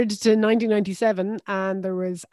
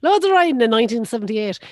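laughing; 3 semitones higher, 6 dB louder than usual. Real, not acted. Laughing joke about riding.

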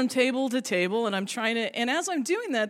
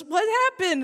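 administrator asking; 9 semitones higher, 5 dB louder than usual. Retold or imitated. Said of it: "and he goes".

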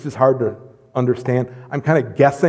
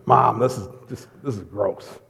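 put-on kid complaining; 4 semitones lower, 6 dB quieter than usual. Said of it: "My mom would ... wipe my face".

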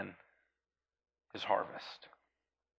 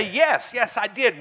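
cheerful; 7 semitones higher, 7 dB louder, slower than usual. Acted. Voicing a churchgoer's answer.

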